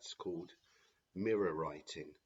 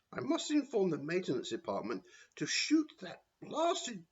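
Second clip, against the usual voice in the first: cruel Matron; 3 semitones higher than usual. Acted. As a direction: savour the cruelty, shrill and grand. Matron voiced in story.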